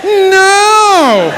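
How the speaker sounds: a high laughing shout of "No". Retold or imitated. Speaker refusing the boy's chocolates, shouting with a laugh. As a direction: bark it out high, loud and laughing.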